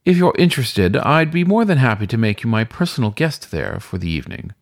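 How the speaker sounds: a hint of a smooth weasel host; suave weasel host. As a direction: invite him in like a charming concierge. Weasel host invites Francis.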